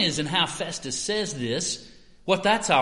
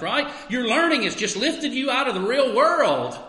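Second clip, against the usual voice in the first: lightly voiced skeptic brushing off Christians; scoffing critic. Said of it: "They could say".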